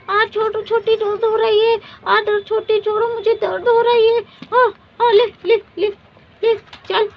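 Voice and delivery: high, loud pleading in pain; crying in pain. Acted. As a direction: beg her to let go, hurting. Hair pulled, begging to stop.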